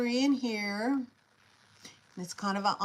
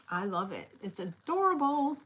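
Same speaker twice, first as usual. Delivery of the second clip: odd cutesy delivery. Real, not acted. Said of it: "I don't know why I said it like that".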